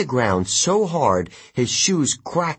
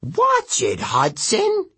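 growling; 10 semitones higher, slower than usual. Acted. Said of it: "East growled".

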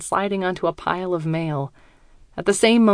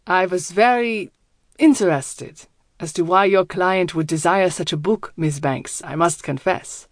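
put-on German accent. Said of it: "His accent is thick, German".

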